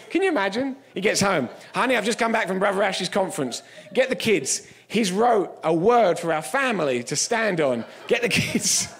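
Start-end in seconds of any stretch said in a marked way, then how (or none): 1.7-8.9 acted eager homecoming; hammed-up thrilled husband; excited family man. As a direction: proudly call the family together, building to a shout. Imagined man proudly gathers his family.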